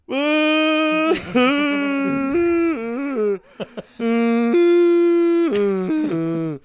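long high loud sung wail; mock wailing cry. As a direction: imitate a drawn-out sobbing wail. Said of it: "then just hit this cry".

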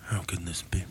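whispered low and eerie; spooky whisper. Pretend. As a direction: breathe it like a ghost story. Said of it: "read it in a creepy voice, a spooky voice".

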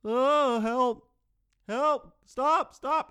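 loud, high nightmare yelling; yelling for help. Retold or imitated. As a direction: yell garbled cries after a bus leaving you behind. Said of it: "I just start yelling".

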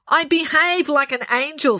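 lightly nasal. A narrator's reading. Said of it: "She sounded very nasal".

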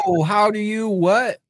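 high, startled what; mock shock at the child's words; surprised whoa. Dad acting out his shock at his daughter. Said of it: "And I was like".

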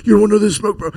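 high, loud mock tough-kid voice; imitating a trash talker. Mocking a kid in game chat, high and loud. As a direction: ham up the boastful kid. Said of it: "they're all talking shit, like".

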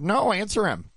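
very high-pitched insistent order, retold; heated, high-pitched challenge; goading demand. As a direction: egg him on in a high, heated voice. Goading the man in retold quarrel.

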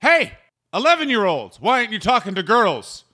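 put-on high, punchy calls to the kids; mock scolding. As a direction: call out and tick off some kids. Heckling children in a bit.

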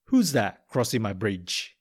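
plain reading voice

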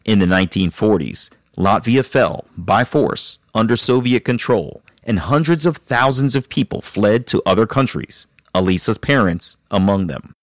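measured storytelling read over music; steady, composed host narration; documentary narration. Acted. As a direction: narrate the guest's backstory like a podcast intro.

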